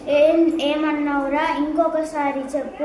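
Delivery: కొంచెం గట్టిగా అరిచినట్టు; mild mock yell. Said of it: "గట్టిగా అరిచాడు".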